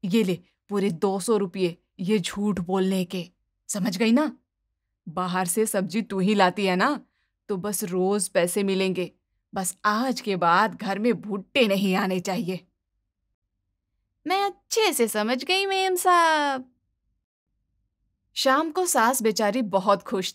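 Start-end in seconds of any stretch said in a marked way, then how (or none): 0.0-12.7 lower, conspiratorial mother-in-law voice; a lightly lowered older woman hushing the maid; mother-in-law bribing maid. Acted. Mother-in-law to maid, secret deal: low, hushed. 14.3-16.7 higher, eager servant voice, slowing on मेम साहब; a sweet-voiced maid agreeing; obliging maid.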